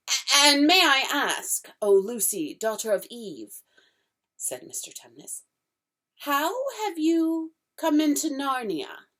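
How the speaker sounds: a jittery faun asking shyly; fawn's voice, flustered and polite; nervous fawn. Acted. Fawn voice held.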